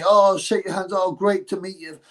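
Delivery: lightly voiced eager rugby lad; a hint of overfriendly; a touch of mock friendliness; mock friendly. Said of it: "started being all friendly".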